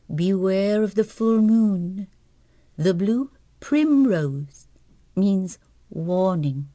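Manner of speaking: slow, solemn warning read; ominous prophecy. Acted. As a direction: let each omen fall heavily. Reading ominous letter.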